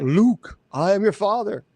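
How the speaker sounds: lightly voiced wrong version of the Vader line; misremembered quote. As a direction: say it the way everyone misremembers it. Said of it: "It's not there".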